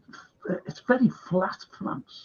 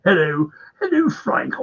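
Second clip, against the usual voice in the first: put-on posh English accent; 2 semitones higher than usual. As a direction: lightly imitate a posh English friend. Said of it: "very posh".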